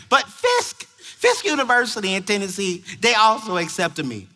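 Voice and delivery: lightly imitated girl explaining; teen girl. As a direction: start high, then ease down. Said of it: "And she says".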